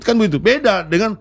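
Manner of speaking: ordinary talk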